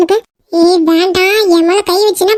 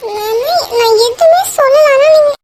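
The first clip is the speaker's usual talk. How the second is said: crying; 5 semitones higher than usual. Acted. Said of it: "இப்ப எதுக்கு நீ அலற?".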